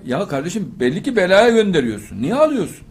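high, loud, pleading rebuke; fiery preacher pleading against sending daughters away; preaching at full force. Acted. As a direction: scold the parents with rising passion. Impassioned rebuke to parents.

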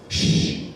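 sharp unvoiced shush; hushing. Date hushing Jack during the film, hushing. Date hushes him in cinema.

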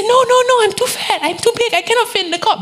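high-pitched, fussy little protest; high mock protest. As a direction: squeak it out like a panicked dreamer. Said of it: "And I said".

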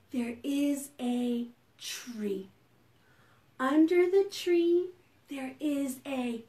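slow, softening recitation; hushed, lilting verse; bedtime rhyme. Pretend. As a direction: lead children gently through a rhyme with pauses.

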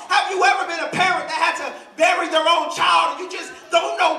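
high, ringing sermon build; impassioned preaching. Real, not acted. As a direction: preach it with rising fire. Preaches at full force.

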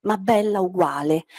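slow, lingering poetry reading; poem reading. Acted. Teacher reciting a poem to her class, slow and lingering. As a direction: let each line hang like a verse.

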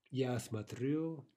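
смотрю slowly, stressed on -рю; stress on final syllable. Shown as a demonstration. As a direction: draw out the last syllable of смотрю. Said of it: "Now shifting stress".

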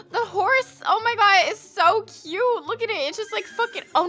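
high gasping gush over something cute; excited squeal. Real, not acted. Player gushing at her cute Sims horse, excited high squeal.

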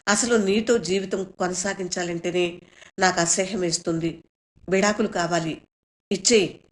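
firm, rising into a mild shout; retold shout. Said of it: "అని అరిచాను".

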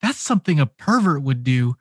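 rising, fast indignant accusation; indignant confrontation. Retold or imitated. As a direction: throw the accusation back at her. Retold confrontation with the manager.

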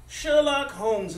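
loud, slow, delighted exclamation of a name; amazed recognition. Acted. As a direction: greet him like a childhood hero appearing. Judge amazed to see Holmes.

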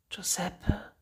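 weak, breathless calling of a name; feverish whisper. Acted. Dying boy whispering to his friend, faint and weak. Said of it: "flüsterte er".

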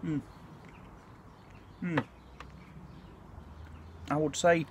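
humming while chewing; muffled closed-mouth murmur; mouth full. Real, not acted. Seen 1: Spoon goes into mouth at 5.2; later "Mm" sounds come with food.

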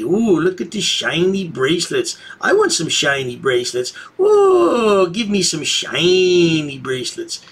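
put-on greedy childlike whine, with a squeal on the second ooh; mock childish craving. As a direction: whine like a kid begging for toys. Mocking frauditors craving handcuffs.

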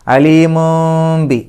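very slow, high അലീമും ബി with a long m hum; n turned to m. Shown as a demonstration. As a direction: hold the m at the end of അലീമും before ബി. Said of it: "മീമിൻ്റെ ശബ്ദമാക്കി മാറ്റുക". (അലീമും ബി: നൂൻ മീമാക്കി മണിക്കുക)

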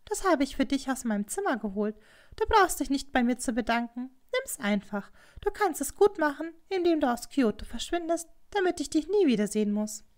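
lightly voiced condescending rival; scheming Hatsumomo. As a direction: urge the girl to disappear. Narrator voices Hatsumomo offering money.

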